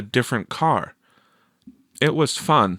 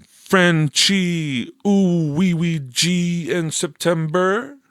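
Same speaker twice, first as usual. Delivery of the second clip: mumbled fake French; 9 semitones higher, slower than usual. A narrator's reading. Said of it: "Victor mumbled".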